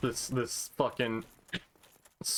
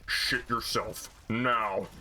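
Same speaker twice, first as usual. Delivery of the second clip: Kylo Ren voice; much slower than usual. Retold or imitated. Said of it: "Kylo Ren ... mic being like".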